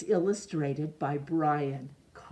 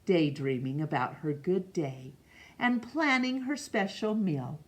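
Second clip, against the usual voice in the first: steady, gentle read-aloud for a class; story narration. Acted. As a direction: read it like a picture book to children. Reads picture book aloud.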